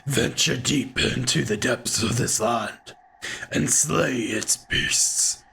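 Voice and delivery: a lightly voiced old hunter, raspy and half-whispered; a hint of a weathered hunter, rasping in a breathy half-whisper. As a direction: growl it out like an old hunter in the dark. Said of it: "the raspy little voice".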